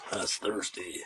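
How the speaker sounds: a light hint of a drawling country voice; barely into the Sling Blade character; mild Billy Bob Thornton. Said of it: "my imitation of Billy Bob Thornton".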